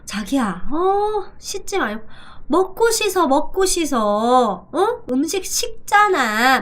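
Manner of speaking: lightly voiced partner calling, pitch jumping up on 어 and 먹고 씻어; nagging partner. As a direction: coax a partner to eat before showering. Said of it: "예를 들어서 이런 거예요". (자기를 부르며 살짝 잔소리하는 연인)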